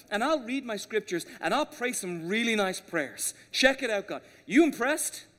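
mock show-off addressing God. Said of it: "so here's what we do".

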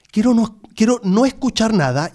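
high whiny plea; pleading whine. Retold or imitated. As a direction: whine for silence. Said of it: "Y vos decís".

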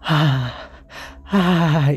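delighted sigh. Retold or imitated. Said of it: "Y yo".

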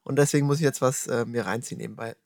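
chewing while talking; smacking lips through a mouthful; mouth full. Real, not acted. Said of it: "das schmatze ich mir jetzt nebenbei rein".

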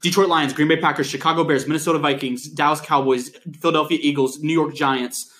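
fast, steady run through a list of names; rapid recitation. Real, not acted. Podcast host racing to name every team, rapid recitation. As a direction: rattle them off against the clock. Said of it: "see how fast I can do it".

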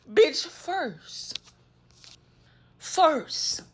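"First." stressed hard as the key point. Shown as a demonstration. Correcting her earlier claim to viewers, leaning hard on "first". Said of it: "attacked nobody first".

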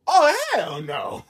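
slow laughing oh hell no; half-laughing outcry; laughing disbelief. Real, not acted. Laughing outburst at video.

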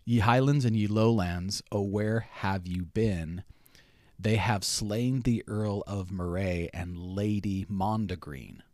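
slow attempt at a Scottish accent; faint, badly faked Scottish or Irish accent; terrible Scottish accent. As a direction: recite old verse in a shaky-at-best Scottish accent. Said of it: "I will try my terrible accent".

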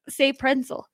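pretzel said as "prensel", with an N; own pronunciation. Shown as a demonstration. Woman asks host to copy her pretzel, said "prensel". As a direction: model pretzel with an N in place of the T. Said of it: "say it the way I say it".

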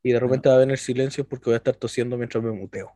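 a touch of hoarseness from a cold; slightly hoarse. Real, not acted. Co-host warns listeners about his cold, slightly hoarse. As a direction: speak a little hoarse, with a head cold. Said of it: "voy a hablar así como medio ronco".

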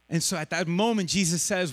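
ordinary delivery

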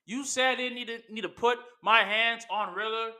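a hint of a heel cutting a promo; Randy Orton promo. Fan playing Randy Orton explaining the attack, mild promo voice. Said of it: "you probably like, Hmm, yes".

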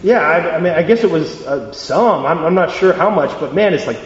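reluctant grumble giving in; half-hearted, put-upon agreement; begrudging. Acted. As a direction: talk yourself grudgingly into a favour. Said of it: "he'd do it begrudgingly".

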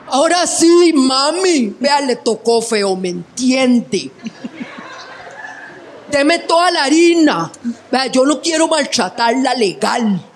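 lightly voiced robber, casual menace; street robber. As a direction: play the polite thug demanding money. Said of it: "llega el mae". (el asaltante le exige la plata a la tía, con una leve amenaza relajada)

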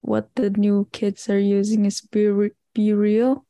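ordinary talk, nothing marked

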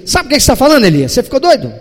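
mock scolding. An imagined God reprimanding Elias, loud and incredulous. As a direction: scold him like a boss. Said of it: "Deus não dá uma carteirada".

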